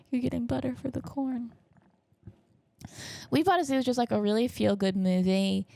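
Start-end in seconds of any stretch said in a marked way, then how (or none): 0.1-1.5 high, softened put-on voice; mock reaction. Passenger in the car after dad's question, mock reaction. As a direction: say it lightly in a raised voice.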